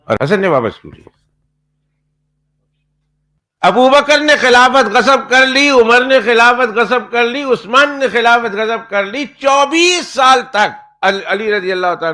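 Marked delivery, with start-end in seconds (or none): 3.6-12.1 high, slow, loud hammed-up accusation; mocking outcry. Preacher parodying the Shia grievance in a loud slow wail. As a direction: shout the charge in mock outrage, stretched out.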